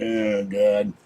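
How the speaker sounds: leaning on the shopping cart, exhausted outcry; weary groan. Real, not acted. Exhausted pushing cart home.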